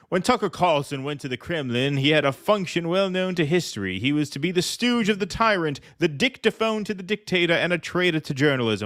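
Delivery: a lightly put-on British accent, reading Boris Johnson's op-ed aloud; mock British accent for the op-ed quote. Host reads Boris Johnson's op-ed to co-host, mock British accent. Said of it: "in my British accent".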